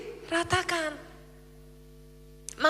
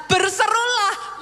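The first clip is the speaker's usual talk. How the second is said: called out command; 5 semitones higher, slower than usual. Acted. God's command quoted.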